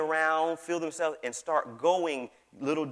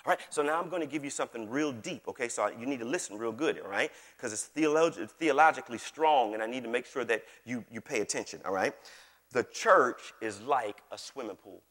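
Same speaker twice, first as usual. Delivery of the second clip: mock solemn. Mock build-up to deep teaching.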